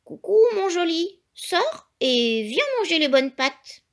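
high, coaxing mother hen; high sing-song coaxing call. A narrator's reading. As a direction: coo to the egg like a loving hen. Mother hen coaxing her chick.

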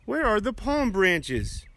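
puzzled donkey. Acted. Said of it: "I imagine him thinking".

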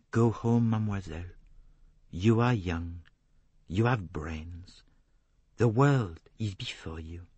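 kindly advice, spaced out; Poirot, kindly. Acted. Detective tells her to go home, kindly accented voice.

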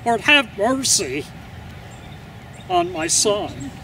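pained plea to God; anguished prayer. Acted. A parent watching a son led to crucifixion, praying in anguish. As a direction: beg for mercy for your child.

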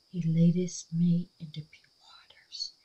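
a hushed, reverent reading; awed whisper. Real, not acted. Reading the engraved verse to viewers, whispering. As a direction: read it softly in wonder.

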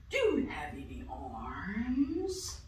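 slow, soft snake. Acted. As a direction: drawl it slowly like a snake. Snake character asks.

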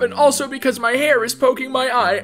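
mildly hammed-up mournful voice; pretend sad. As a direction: play at being heartbroken, a little high. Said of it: "I'm being sad right now".

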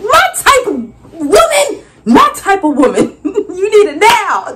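high, laughing, loud praise; laughing delight. Retold or imitated. Vendor laughing at an eager customer. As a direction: laugh it out with glee.

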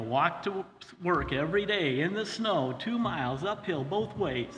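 lightly imitating parents' well-worn tale; a hint of the parents' exaggerated hardship story; mock parental boast. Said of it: "I did what my parents always said".

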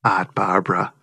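put-on Art Barbara in Boston accent, r's dropped, Aht Bahbra. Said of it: "with that Boston accent".

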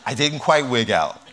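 laughing mid-sentence; chuckling through the words. Real, not acted. Nearly swallowed fly, laughing.

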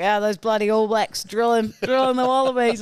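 lightly imitating a Kiwi dad; a hint of a rugby-mad New Zealand dad; broad kiwi accent. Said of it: "he's like".

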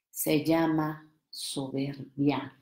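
slow hushed whisper, said in confidence. Shown as a demonstration. Whispering a secret to the audience, hushed. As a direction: lean in and breathe it. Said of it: "¿Me acerco?".

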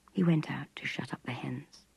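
plain reading voice

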